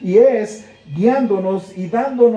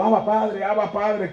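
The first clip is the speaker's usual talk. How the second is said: soft and distant, just watching it pass; detached, from afar; 5 dB quieter than usual. Retold or imitated. Preacher voicing a distant believer, soft and detached. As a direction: say it like a spectator, barely involved. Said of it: "como si estuviéramos nosotros en, eh, alejados".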